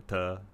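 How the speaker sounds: "te" as a short "tuh"; shaved-off form. Shown as a demonstration. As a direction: reduce "te" to a brief schwa. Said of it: "I shave off the".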